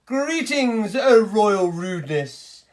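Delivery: a hint of a second fawning tailor; pompous tailor. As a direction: sweep into a flattering bow. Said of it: "said the second man".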